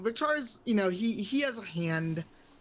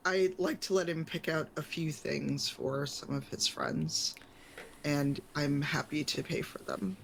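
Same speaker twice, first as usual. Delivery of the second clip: lower, measured visitor explaining himself; hesitant, courteous request in a lowered voice; polite adult customer; 5 semitones lower, 3 dB quieter than usual. Acted.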